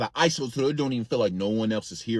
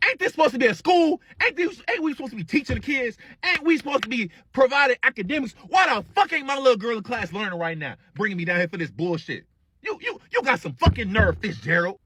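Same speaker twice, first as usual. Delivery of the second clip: high, yelling auntie tearing into the teacher; loud angry auntie; 10 semitones higher than usual. Retold or imitated. Auntie yelling at the teacher in the office, high and furious. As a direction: shout her down from the hallway. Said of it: "a certain loud echo of a voice".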